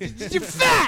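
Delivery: put-on high-pitched, ranting wrestler voice. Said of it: "Scott Steiner losing it on national television".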